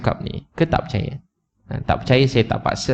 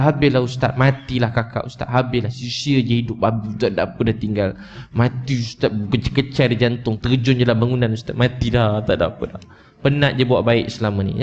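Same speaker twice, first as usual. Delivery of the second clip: mock despairing girl; 2 semitones lower than usual. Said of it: "Jangan, jangan cakap macam tu".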